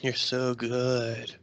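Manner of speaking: slow, drawn-out fake pleasure; mock bedroom acting. Podcaster mocking an actress in bed, slow mock passion. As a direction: draw it out like faked passion. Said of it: "she's acting during the fucking also".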